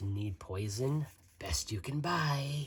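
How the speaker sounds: soft, hushed whisper under the breath. Voicing a slender man in a tavern: whispering. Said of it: "A slender man whispers".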